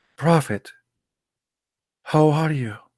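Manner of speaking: soft, subdued voice. Explaining how one must address the Prophet, demonstrating a lowered, subdued voice. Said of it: "You have to speak like this".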